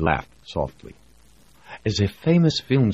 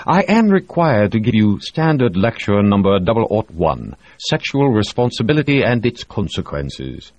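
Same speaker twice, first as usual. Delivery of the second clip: higher, louder bureaucratic recital; mock official doctor; 6 semitones higher, 5 dB louder than usual. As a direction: recite it like a tired regulation. Reed's mock official lecture.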